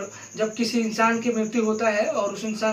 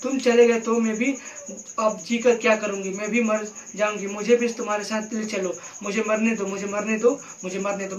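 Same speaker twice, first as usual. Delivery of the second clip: acted wailing grief; wailing lament. Shown as a demonstration. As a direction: wail that she wants to die too. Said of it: "third में धाड़ में रो रहा हूँ".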